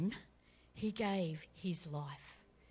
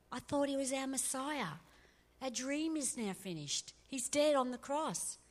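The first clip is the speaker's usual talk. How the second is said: despairing disciples; 5 semitones higher than usual. Retold or imitated. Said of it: "they're going around going".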